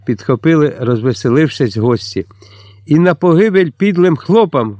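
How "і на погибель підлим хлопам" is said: furious cry of a toast; fierce shout. A narrator's reading. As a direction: spit it out with rage at the serfs. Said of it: "вигукнув Петро".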